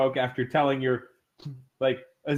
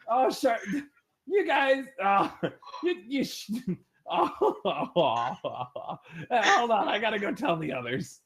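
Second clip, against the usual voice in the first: higher, sputtering through laughter; flustered laughing; 4 semitones higher than usual. Acted. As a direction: lose composure while in character. Flustered NPC laughing mid-speech.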